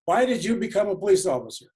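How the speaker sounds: put-on emphatic, accented elder leader asking; Nelson Mandela impression. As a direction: put on a stately South African accent, projected. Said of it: "trying to do my impression of Nelson Mandela".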